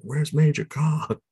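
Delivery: nasal New York rat voice; New York accent. Retold or imitated. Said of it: "Rizzo again in the New York accent".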